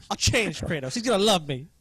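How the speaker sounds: smitten fan voice. Retold or imitated. Mocking a smitten devotee.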